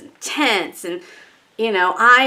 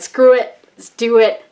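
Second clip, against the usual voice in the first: decisive outburst; 5 dB louder, slower than usual. Retold or imitated. To herself finally hitting buy, loud decisive cry. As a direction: slam the decision home.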